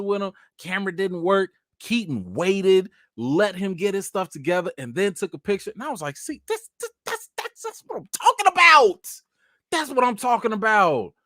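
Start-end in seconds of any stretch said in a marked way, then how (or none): 6.2-11.1 high stammering start building to a loud shout; hammed-up, thrilled exclamation; excited approval. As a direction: build from a high squeak to a triumphant holler. Exclaims approval of kind star, retold.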